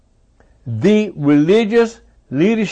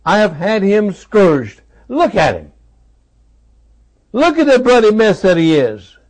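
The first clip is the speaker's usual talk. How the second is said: voicing Pilate; 5 semitones higher than usual. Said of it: "as if he's saying to this bloodthirsty".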